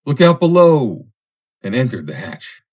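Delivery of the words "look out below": loud, high warning holler; cheery call. A narrator's reading. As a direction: call out cheerily to those below. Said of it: "then called out cheerily".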